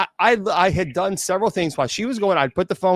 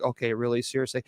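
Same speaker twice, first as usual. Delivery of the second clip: exasperated Scream caller; 4 semitones lower, 7 dB quieter, faster than usual. Retold or imitated. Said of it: "the Scream character's like".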